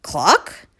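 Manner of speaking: questioning cluck, sharply rising; puzzled surprise. Acted. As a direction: cluck as if doubting your own voice. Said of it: "shot open in surprise".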